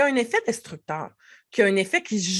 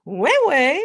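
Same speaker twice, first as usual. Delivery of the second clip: playful agreement; 4 semitones higher, 5 dB louder than usual. Shown as a demonstration. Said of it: "avec le ton, avec l'intonation".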